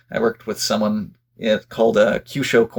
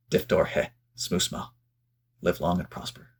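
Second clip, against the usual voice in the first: solemn Vulcan salute; 4 semitones lower, 7 dB quieter than usual. Pretend.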